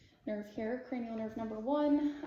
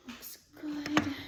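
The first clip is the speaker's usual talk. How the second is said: whispered; 2 semitones higher, 5 dB louder than usual. Real, not acted. Soft aside during the exam.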